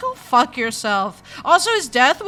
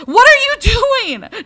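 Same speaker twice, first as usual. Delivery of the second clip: slow, loud, high, leaning on are; loud slow what ARE you doing; exasperated yell; 11 semitones higher, 9 dB louder, slower than usual. Real, not acted. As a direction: drag out "are" in disbelief. Yelling at the cat.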